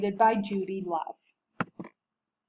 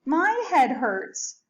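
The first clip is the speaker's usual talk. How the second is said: higher, slow, a touch of moaning; mild moan; 5 semitones higher, 4 dB louder, slower than usual. Acted. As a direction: whine it out slowly. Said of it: "she moaned".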